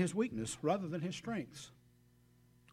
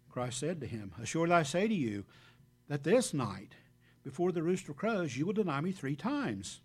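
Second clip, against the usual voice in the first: louder, measured Bible reading; scripture reading; 4 dB louder than usual. Acted. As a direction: proclaim the verses to the congregation. Preacher reads scripture aloud.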